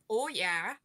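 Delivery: imitating a Canadian grandpa's accent; light Canadian "Oh, yeah" with a lifted end. Grandson imitating his grandpa's sound, light Canadian accent. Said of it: "He's got that".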